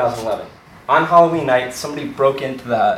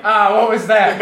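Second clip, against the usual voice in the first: startled visitor; 5 semitones higher than usual. Retold or imitated. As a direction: jump at a glimpse in the dark. Startled visitor in mirror maze.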